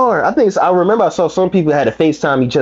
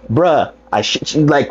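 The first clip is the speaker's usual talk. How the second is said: normal talking voice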